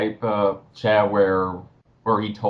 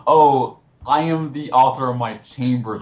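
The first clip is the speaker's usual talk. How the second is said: mocking pretentious; 4 semitones higher than usual. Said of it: "saying a bunch of deep stuff like".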